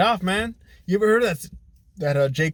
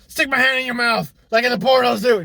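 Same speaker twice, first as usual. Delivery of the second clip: higher and louder inner voice; lightly mocking, higher; 11 semitones higher, 8 dB louder than usual. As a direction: play it as a dumb plan. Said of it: "You know".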